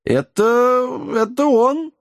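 high, panicky stammer; stammering in fright. Acted. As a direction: blurt it out, tongue tripping with fear. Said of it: "заплетающимся языком проговорил гном".

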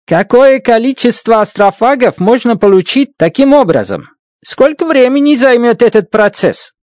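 a hint of an African accent in Russian. A narrator's reading. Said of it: "заговорил с акцентом, характерным для африканцев".

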